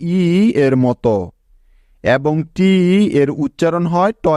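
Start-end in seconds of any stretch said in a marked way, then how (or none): 0.1-0.2 ই held apart as a lone vowel sound; isolated vowel ই, phonics style; closed-syllable I sound. Shown as a demonstration. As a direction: sound out ই by itself. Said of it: "আই এর উচ্চারণ হবে".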